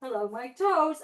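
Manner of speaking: slow, playful hello to the toes; sing-song kids' greeting. Shown as a demonstration. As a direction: greet your toes for little kids. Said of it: "we can do this one more time".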